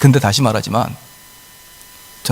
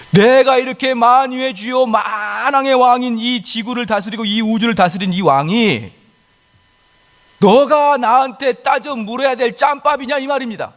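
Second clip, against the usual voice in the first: God's majesty; 7 semitones higher, slower than usual. Acted. God speaking as king.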